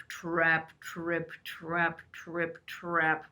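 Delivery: heavy steps. Acted. Big goat crossing slowly.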